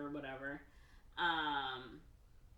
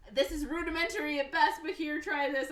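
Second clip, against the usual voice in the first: put-on voice; 10 semitones higher, 8 dB louder than usual. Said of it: "he's like".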